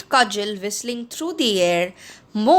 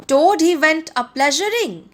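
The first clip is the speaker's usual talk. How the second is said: louder, higher yell of the song line; yelled taunt; 5 semitones higher, 4 dB louder than usual. A narrator's reading. Toad charging the Chief Weasel, yelling the song back. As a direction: fling his own mocking song back at them. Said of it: "he yelled".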